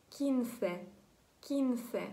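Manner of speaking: кінсе вимовлено по-іспанськи; кінсе, два склади, наголос на кі; Spanish word quince. Shown as a demonstration. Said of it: "Ми пишемо Q U I N S E". (іспанське кінсе)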